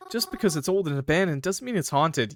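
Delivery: a hint of a high-pitched girly voice; Mary. Skeptic disputing that the old house is haunted, lightly girly voice. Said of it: "Please don't hate on my Mary voice".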